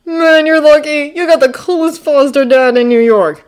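high, loud, awed envy; blown away. A narrator's reading. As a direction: awestruck boy's admiration. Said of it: "like he's completely blown away".

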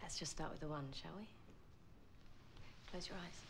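low, hushed invitation; soft coaxing. Acted. Speaker asks partner to close eyes, soft coaxing. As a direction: coax them softly and intimately. Intimate coaxing after flirting.

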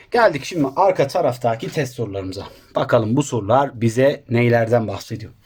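slightly out of breath, lesson pace. Real, not acted. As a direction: talk between short breaths. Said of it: "Nefes nefese kaldım".

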